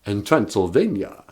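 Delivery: lightly voiced vampire, proud of Transylvania; a hint of the Count, explaining grandly; mild mock Count accent. Count voice explains Sesame Street.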